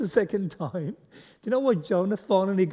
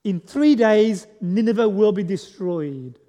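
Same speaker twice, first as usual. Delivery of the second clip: slow, louder doom proclamation, stretching "three"; proclaiming Jonah's sermon; 5 dB louder than usual. Retold or imitated. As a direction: announce doom to the city like a prophet. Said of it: "his sermon was".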